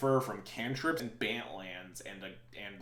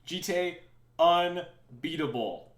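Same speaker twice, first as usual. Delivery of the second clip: mock hype announcement; 7 semitones higher, 12 dB louder, much slower than usual. Mock hype about card.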